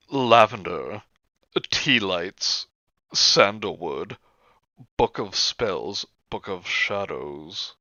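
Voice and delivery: slow list reading, each item falling away; slow, drawn-out reading of an inventory. Acted. Reading a witchy supply list to friends, slow read-out.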